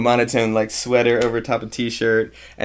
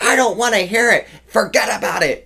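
put-on German old lady yelling; 10 semitones higher than usual. German old lady refusing to hear gossip, yelling. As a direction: yell it like a fed-up German grandmother. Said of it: "she's like".

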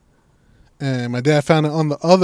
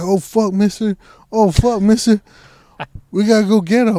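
higher-pitched mock alarm; urgent, raised-voice retold reaction; 8 semitones higher, 5 dB louder than usual. Dad reacting to the dogs getting out, in mock alarm.

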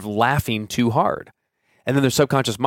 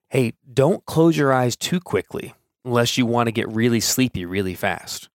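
sleepy suggestion. Shown as a demonstration. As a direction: lull them toward sleep. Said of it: "a negative statement would be something like this".

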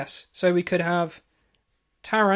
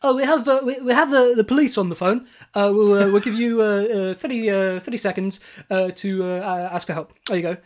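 louder, hammed-up game show host with a phone; menacing quiz host; 2 semitones higher, 8 dB louder than usual. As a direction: play the gloating host, louder. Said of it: "he'd be like".

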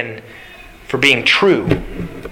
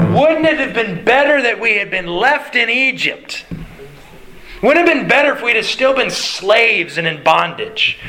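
raised, complaining whine; whining Israelites; 3 semitones higher than usual. Acted. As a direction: moan like ungrateful wanderers.

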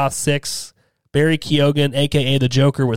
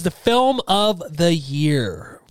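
dramatic announcer; much slower than usual. Acted. Announcing the top award.

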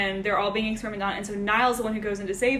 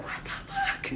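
hushed laughing aside; 8 dB quieter, slower than usual. Retold or imitated. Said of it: "Niall's just in the back like".

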